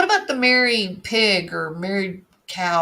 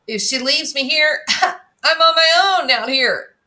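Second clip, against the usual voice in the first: higher whiny mock plea; quoting Brian's plea; 5 semitones higher than usual. Reading out Brian's stranded complaint, mock whiny. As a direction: whine it like a stranded helpless kid.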